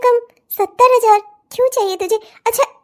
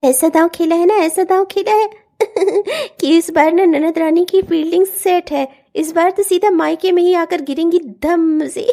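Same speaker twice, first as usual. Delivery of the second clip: low, scheming voice with sly laughs; gloating schemer; 3 semitones lower than usual. Acted. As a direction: savour the trap. (अकेले में हँसती चालाक ननद)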